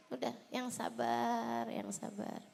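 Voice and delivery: soft, slow, soothing reassurance; calm them down, drawing the words out gently; hushed, patient comfort. Real, not acted. Soothing wives of angry husbands.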